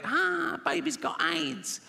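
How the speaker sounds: high, drawn-out mock cry; gleeful punchline. Comic delivers his only punchline, high mock-gleeful cry. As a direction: sing out the punchline high, stretching each word. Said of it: "he gets to that bit".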